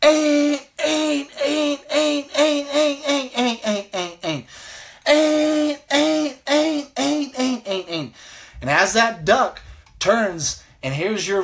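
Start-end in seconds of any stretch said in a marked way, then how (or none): 0.0-4.6 high duck call, tapering down; hail call. Shown as a demonstration. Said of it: "So once again". 5.1-8.1 high duck call, tapering down; hail call. Shown as a demonstration. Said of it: "So here it is again, the hail call".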